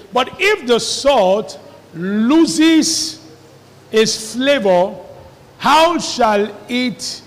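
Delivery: weighty, deliberate Bible reading; slow scripture reading. Acted. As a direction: read each phrase slowly with long pauses.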